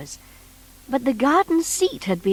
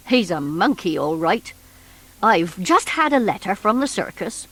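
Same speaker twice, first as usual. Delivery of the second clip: lightly voiced policeman; 2 semitones lower than usual. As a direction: play the doubting policeman. Mister Plod's voice.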